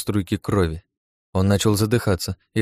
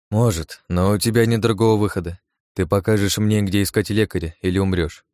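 cold tone. Acted. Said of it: "холодным тоном произнёс я".

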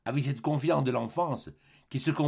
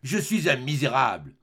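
anguished cry; 3 semitones higher, 6 dB louder than usual. Acted. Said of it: "et il cria".

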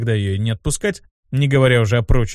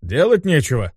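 mildly indignant outburst; 3 semitones higher than usual. Acted. Demon objecting to wasting money, mildly indignant. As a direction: object with a touch of outrage. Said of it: "возмутился Абдусциус".

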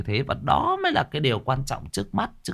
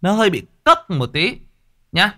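brash, louder, cocky turn; 4 semitones higher, 4 dB louder than usual. Shown as a demonstration. Older brother turning brash with young recruit. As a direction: swagger a little, half joking. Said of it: "anh nói sang một cái cách nó hơi bị".

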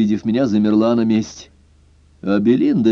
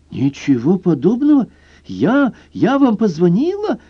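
put-on baffled girl; 10 semitones higher than usual. A narrator's reading. Tipsy girl amazed at the detective's claim, high and bewildered. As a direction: act stunned by the claim.

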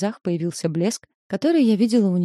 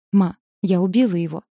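blurted out a touch louder, close to tears; tearful confession; 5 dB louder than usual. Acted. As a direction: daughter confessing the killing to her mother, tearful. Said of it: "когда я слышу свои слова".

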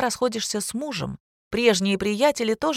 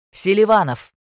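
a much louder barked surname; booming phone answer; 3 semitones higher, 7 dB louder than usual. Acted. A detective answering his work phone, booming. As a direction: boom it into the phone. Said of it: "грянула из трубки".

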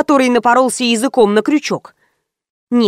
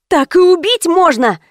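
shriek; 7 semitones higher than usual. A narrator's reading. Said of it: "взвизгнула я".

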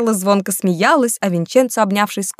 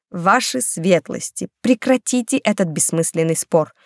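plain reading voice

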